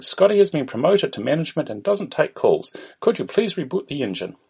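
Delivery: put-on Indian-accented call centre greeting. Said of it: "An Indian voice is heard".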